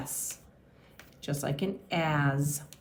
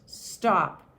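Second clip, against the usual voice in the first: said fast; 3 dB louder than usual. Shown as a demonstration. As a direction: STOP run together as one quick word. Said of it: "when we say the word so fast".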